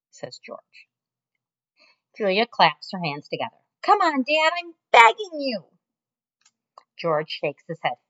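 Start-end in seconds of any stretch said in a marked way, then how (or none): 3.8-5.6 higher, pleading daughter voice; pleading girl. Acted. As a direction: beg your dad in a girl's voice. Julia voiced by narrator.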